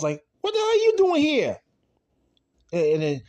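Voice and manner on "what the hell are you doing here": high, loud outraged demand; shouted high-pitched challenge; angry confrontation. Retold or imitated. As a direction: act out a stunned, hostile son. Voices Sean confronting his father.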